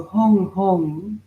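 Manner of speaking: drawn-out, resonant "Hong Hong"; mantra demonstration. Shown as a demonstration. Teacher modelling "Hong Hong" for chanters, slow and sustained. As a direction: hold each "Hong" long on a humming ending. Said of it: "you can say that".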